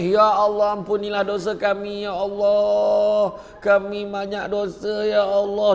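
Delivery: imitated wailing supplication; mock tearful prayer. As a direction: plead to God in an acted weepy chant. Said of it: "Doa menangis".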